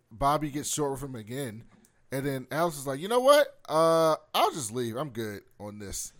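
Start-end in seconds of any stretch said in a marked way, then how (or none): 3.0-6.1 high, loud snap; mock fed-up snap. Voicing Alex fed up.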